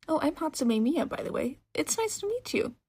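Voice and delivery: high, excited woman's voice; bubbly shopkeeper. Acted. Mechanic woman welcomes a young customer, bubbly and high. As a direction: gush at the customer eagerly.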